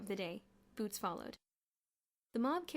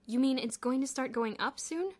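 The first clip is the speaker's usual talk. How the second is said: louder, higher eager question; hopeful demand; 4 semitones higher, 8 dB louder than usual. A narrator's reading. Bruno presses George about the stock, hopeful. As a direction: ask it eagerly, hoping. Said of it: "demanded Bruno hopefully".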